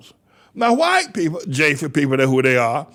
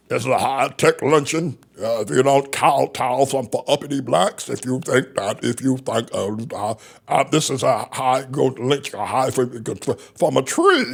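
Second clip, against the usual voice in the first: imitating Clarence Thomas; 5 semitones lower than usual. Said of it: "I don't talk like that".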